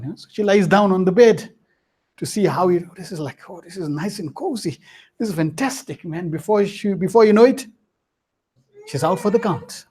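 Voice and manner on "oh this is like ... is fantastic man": cozy quiet sigh. Acted. Maid enjoying the bed.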